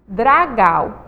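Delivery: "Dragau" with a clear oral "au"; "Dragau", crisp oral ending. Shown as a demonstration. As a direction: say "Dragau" purely through the mouth. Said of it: "vamos ler as duas palavrinhas".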